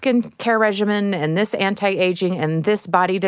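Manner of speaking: hurried imitation of pushy advice, piling up; mock sales patter. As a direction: rattle off a relentless list of product pitches. Mimicking consumer marketing messages.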